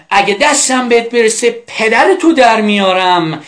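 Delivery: acted angry threat. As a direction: play someone furious, without really shouting. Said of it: "حالا دیگه عصبانی شده". (تهدید عصبانی نمایشی)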